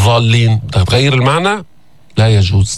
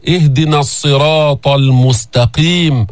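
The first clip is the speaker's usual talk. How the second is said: slow, measured Fatiha recitation; Quran recitation; slower than usual. Acted. Teacher reciting al-Fatiha to students, slow chant. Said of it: "reciting al-Fatiha".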